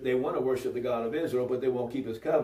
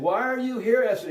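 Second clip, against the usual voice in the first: higher, louder incredulous retold question; king's startled question; 6 semitones higher, 4 dB louder than usual. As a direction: demand it like a startled king, lightly acted. King confronts Esther in retold story.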